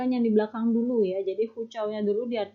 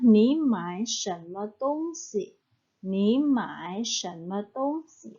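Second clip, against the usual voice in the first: slow model sentence; slower than usual. Shown as a demonstration. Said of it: "Yang terakhir adalah".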